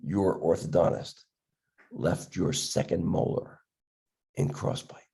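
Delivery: low, slow, grave verdict; stern. Retold or imitated. Resident telling the freshman his bite is flawed, low and stern. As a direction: deliver the bad news sternly and slowly. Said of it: "with a very stern face".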